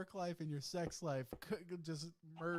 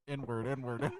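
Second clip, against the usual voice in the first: loud, repeated mock yell; mock screaming; 3 semitones lower, 7 dB louder than usual. Host imitates the troll still going on stream, mock yell. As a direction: imitate someone yelling it over and over. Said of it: "just started screaming the N-word".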